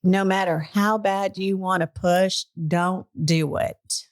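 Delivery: slow, lightly imitated Texas drawl. Paramedics warning a woman not to push, Texas drawl. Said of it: "in their Texas drawl".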